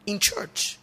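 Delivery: mock disbelief. Real, not acted. To the congregation, high incredulous repeat. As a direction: sound shocked it happened in church.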